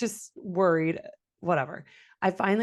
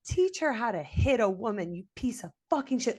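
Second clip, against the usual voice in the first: mild mock yell, pitched up; retold screaming; 4 semitones higher than usual. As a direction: replay an angry tirade without full volume. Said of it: "like, screaming my head off".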